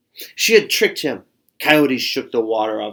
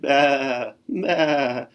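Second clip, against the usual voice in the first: lightly voiced bleating bah; lamb bleat; 3 semitones higher than usual. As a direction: lamb bleats nervously at the coyote. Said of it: "Borreguita bleated".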